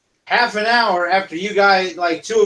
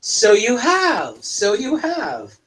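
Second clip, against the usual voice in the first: fond approval; slower than usual. Acted. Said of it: "And she goes".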